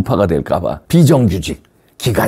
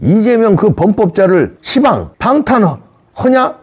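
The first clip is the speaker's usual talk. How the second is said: higher Jeolla dialect tirade, 거시기 해부러 rising; Jeolla dialect scolding; 8 semitones higher than usual. Pretend. Caller scolding the Democratic Party in Jeolla dialect, higher and heated. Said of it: "그리고 전라도 사투리로요, 민주당에 전화 걸어서 좀 호되게 욕해줘요".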